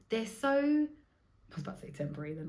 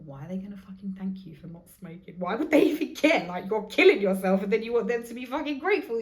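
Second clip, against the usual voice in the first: harsh self-talk; 3 semitones higher, 7 dB louder than usual. Retold or imitated. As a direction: scold yourself, louder and louder. Harsh inner voice at herself.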